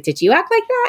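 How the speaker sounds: high-pitched mock question to mom; teasing mockery. Daughter making fun of her mom over a band, teasing. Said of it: "make fun of my mom".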